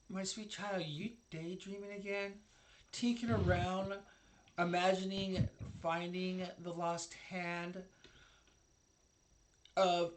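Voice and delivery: a hint of a sweetly doting elder; feared woman, doting. Tiefling woman catches Hal daydreaming at his workshop, lightly doting. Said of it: "And you hear her say".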